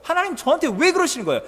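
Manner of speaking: pushed up high and rushed, a petulant complaint. Acted. Jonah complaining, repeated louder.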